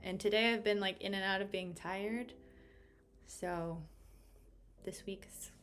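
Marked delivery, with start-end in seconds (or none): 3.3-5.5 unvoiced hushed whisper. Real, not acted. Reader confides to viewers about her week, whispering. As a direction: lean in and breathe the words like a secret.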